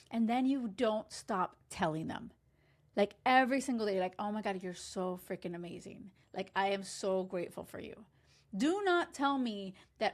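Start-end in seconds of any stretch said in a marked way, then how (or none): 4.2-8.1 softer, adoring praise; tender lover's gush; softly gushing. Pretend. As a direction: whisper your love to your partner. Voicing daily praise.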